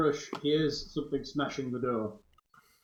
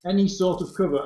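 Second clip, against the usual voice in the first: mocking repeat, louder; incredulous echo; 4 semitones higher, 6 dB louder than usual. Real, not acted. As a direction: scoff at the claim. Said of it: "A door with a gap in it is all kinds of cover".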